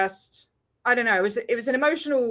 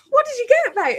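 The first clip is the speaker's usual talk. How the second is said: 1 retold surprised question; 12 semitones higher, 3 dB louder than usual. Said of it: "And I'm like".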